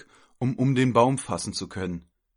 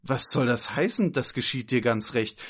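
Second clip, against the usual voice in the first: scolding that climbs high and loud; indignant; 4 semitones higher, 3 dB louder than usual. Acted. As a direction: rebuke the child with rising outrage. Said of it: "richtete ihren Blick empört". (empört schimpfend)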